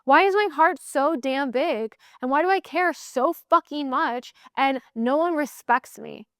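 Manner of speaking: mock exasperated rant at herself. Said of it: "I'm like".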